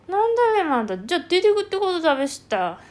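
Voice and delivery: high, loud dialect retort; mock scolding in dialect. Elder challenging someone who is going out, loud mock-scolding dialect. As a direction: pounce on it in broad country dialect.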